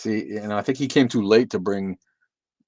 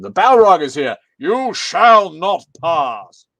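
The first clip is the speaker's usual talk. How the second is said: loud, raised theatrical proclamation, slowing right down; booming movie quote; 8 semitones higher, 12 dB louder, much slower than usual. Acted. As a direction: bellow it like a wizard barring the way. Booming movie quote greeting the Balrog.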